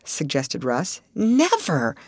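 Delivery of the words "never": mildly raised refusal; a touch of a cry. Acted. Ruth refusing to go ashore, a mild cry. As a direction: push back, lightly voiced. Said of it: "cried Ruth".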